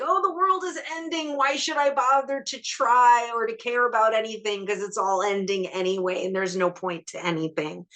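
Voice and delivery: high, overdone woe-is-me voice; mock doom-and-gloom. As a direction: ham up hopeless despair. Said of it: "this one feels kind of like".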